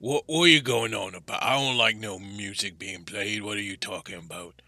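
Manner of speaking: lightly voiced rustic rock giant, grumbling; gruff Boulder, indignant. Boulder questions the stranger in his house, mildly indignant creature voice. Game master plays Boulder.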